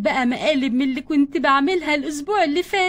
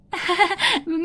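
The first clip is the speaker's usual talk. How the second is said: short dismissive laugh. Acted. Prankster caught by the mother, laughing it off. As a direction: laugh as if it were harmless.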